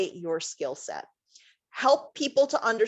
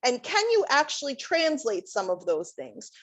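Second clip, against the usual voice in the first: higher-pitched doubting voice, lifting into a question; skeptical questioning; 4 semitones higher than usual. Retold or imitated. Adviser voicing people who don't see lab skills as transferable, skeptical. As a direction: voice the doubters, unconvinced by the link. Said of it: "'cause they're thinking".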